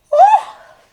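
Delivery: sudden high, loud intake of a yawn; a real yawn breaking in; yawning gasp. Real, not acted. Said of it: "I start yawning".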